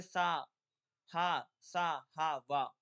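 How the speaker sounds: सा, हा, वा loud and drawn out; fricative demo. Shown as a demonstration. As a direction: pronounce each syllable for pupils. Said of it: "संघर्षी व्यंजन कौन कौन से". (अक्षरों का ज़ोरदार उच्चारण)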